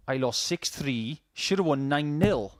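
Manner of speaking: slow, lightly put-on Welsh accent; a rough Welsh accent, drawn out. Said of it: "my terrible Welsh accent".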